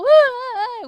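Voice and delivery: loud, high pretend bawl; mock crying wail. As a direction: wail as the wronged ghost. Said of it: "울면서 가난 귀신이 이렇게 말했다". (서럽게 우는 척 크게 울부짖기)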